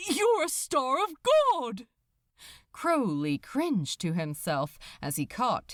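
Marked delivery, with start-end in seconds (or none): 0.1-1.9 louder. Acted. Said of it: "Then louder".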